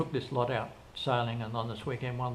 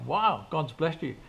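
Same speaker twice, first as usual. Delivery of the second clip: higher, louder and slow; amazed wow; 4 semitones higher, 5 dB louder, slower than usual. Retold or imitated. Boss marvelling at the worker's lucky find, slow and amazed. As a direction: savour the wonder of it. Reacting to found money.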